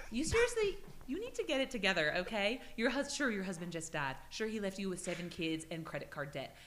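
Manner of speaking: mock scolding lecture; scolding quote. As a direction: tell them off like a stern aunt. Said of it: "I would tell those pussies".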